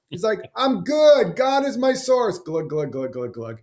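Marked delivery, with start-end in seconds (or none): 0.6-2.4 much higher, slow and untroubled; cheerful holy refusal; serene believer. Retold or imitated. Harry waving off the helicopter, slow high serene voice. 2.4-3.6 drowning glug. Retold or imitated. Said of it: "And he drowns".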